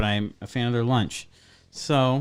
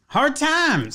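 mock tough voice; 13 semitones higher than usual. Mocking the tough waitresses.

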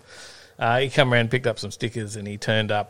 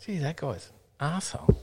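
higher, softer mock grumble; grumbling participant; 6 semitones higher, 5 dB quieter than usual. Participants muttering about the official, mock grumble. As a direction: mimic a disgruntled punter under the breath. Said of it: "some people that probably went".

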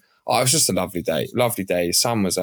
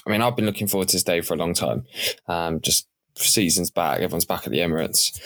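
slightly croaky, voice half gone; hoarse from singing at the match. Real, not acted. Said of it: "I've kinda lost my voice a little bit. It's a little bit croaky".

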